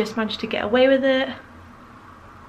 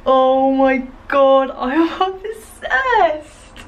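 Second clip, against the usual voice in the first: excited; 3 semitones higher, 4 dB louder, much slower than usual. Real, not acted. Thrilled with own look.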